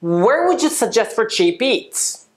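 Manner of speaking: slow, clear model sentence; careful teacher demo pace; slow model read. Shown as a demonstration. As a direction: spell it out slowly for learners. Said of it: "最後に一回行きます".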